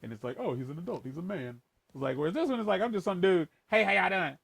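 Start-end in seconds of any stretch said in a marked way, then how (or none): 0.4-1.6 mature voice. Shown as a demonstration. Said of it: "this one I think feels a bit more mature". 2.8-4.4 casual dude voice, a bit brighter; easygoing, boyish greeting; a casual, boyish dude's voice; childish voice. Shown as a demonstration. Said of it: "This voice sounds kinda childish".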